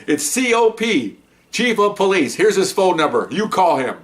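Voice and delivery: defiant slow spelling of C O P; slow spelled-out emphasis. Retold or imitated. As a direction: spell it out like a dare. Daring caller to phone chief.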